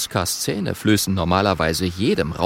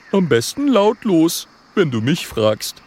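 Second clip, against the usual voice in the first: high, punchy little dragon; high-pitched character aside; cocky little dragon; 7 semitones higher, 3 dB louder than usual. Acted. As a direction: quip it as a tough small dragon.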